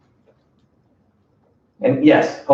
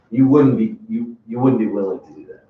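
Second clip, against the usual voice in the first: nice and soft. Shown as a demonstration. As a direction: ask it softly, no pressure behind it. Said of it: "You're gonna say it nice and soft".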